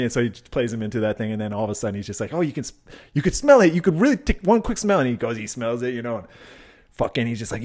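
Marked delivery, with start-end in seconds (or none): 2.3-5.0 raised, eager mock persuasion; higher, playful tempting; coaxing. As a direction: imitate a stoner talking someone into it. Acted stoner luring friend to sniff.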